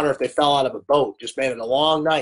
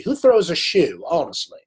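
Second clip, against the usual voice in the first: bad British accent. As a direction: quote a spy-comedy line in a lightly put-on British accent. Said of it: "can't do my bad British accent".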